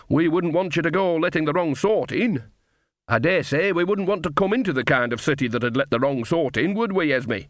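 teasing sarcasm, lightly voiced; lightly mocking Nanny. Nanny Ogg teasing the gate guards, lightly mocking.

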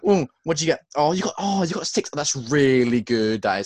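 mocking show-offs. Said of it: "They're all absolutely like".

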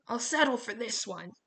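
a restrained narrated scream; Dylan's scream. A narrator's reading. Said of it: "but Dylan screamed".

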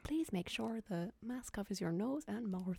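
slow, soft Northern Irish announcement; Northern Irish accent. Acted. Imitating the train announcement, slow Northern Irish accent. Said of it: "it's usually a Northern train".

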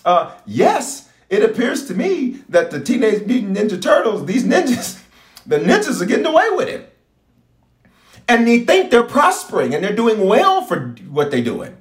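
a hint of a nervous son answering God; mock nervous reply to God. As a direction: act sheepish, stammering to the Lord. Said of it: "I said".

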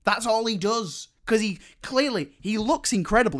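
high-pitched, worked-up protest; exasperated rant. Real, not acted. Speaker complaining to co-host about a useless monkey character, exasperated.

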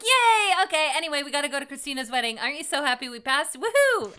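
high, loud, gushing celebration; mock party cheer, rushing through the middle; excited friends. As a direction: cheer as oblivious, overjoyed friends. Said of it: "all of his friends are like".

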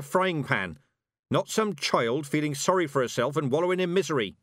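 mocking, no-nonsense old witch; scolding old witch. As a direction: take the girl to task.

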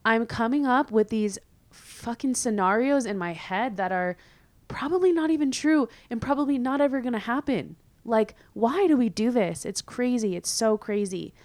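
exasperated self-talk. Retold or imitated. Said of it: "I've been like".

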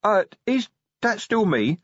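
high, uncertain troll question; dazed troll, mildly nervous. A narrator's reading. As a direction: ask nervously as a confused troll. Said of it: "said Brick nervously".

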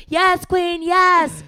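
high, loud hyped-up hype cry; mock cheering. Imitating fans cheering on a mess, exaggerated high, loud cheer. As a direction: whoop it like an adoring fan. Mimicking gushing, adoring crowd cheers.

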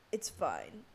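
low, unbothered shrug of a quote; casual, dropped-down delivery; retold unbothered. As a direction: play it totally unfazed. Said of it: "It didn't even freak me out".

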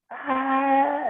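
high mock scream, thrown into the air; imitated scream. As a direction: scream like a woman losing it. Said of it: "así, como una loca". (grito imitado, agudo, como una loca)

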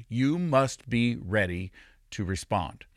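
"You must be ready to respond" slowly, with weighty pauses; deliberate, measured charge on "ready to respond"; slow emphasis. Real, not acted. Slow first take of repeated charge.

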